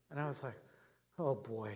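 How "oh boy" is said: put-on low, soft, sinking "oh boy"; chastened reaction. Pastor humbled by a boy's answer, quietly chastened. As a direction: drop it low and quiet, realizing your fault.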